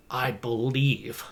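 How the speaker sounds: a confident, deliberate "I believe"; emphasis on believe. Shown as a demonstration. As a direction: lean firmly on "believe". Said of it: "Put some emphasis".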